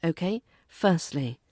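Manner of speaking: ordinary delivery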